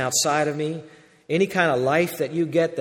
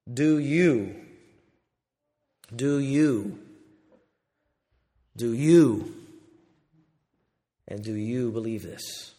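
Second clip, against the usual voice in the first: hushed repeated question; 7 semitones lower, 6 dB quieter, slower than usual. Acted. Preacher repeats Jesus's question.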